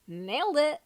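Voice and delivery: proud, punchy declaration; triumphant little cheer; nailed it with a grin; confident. Acted. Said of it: "declared confidently".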